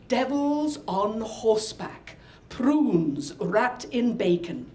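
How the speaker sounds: slow, measured, savouring each item; slow menu reading. Retold or imitated. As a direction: read it out slowly like a discovery. Reading menu items out with relish.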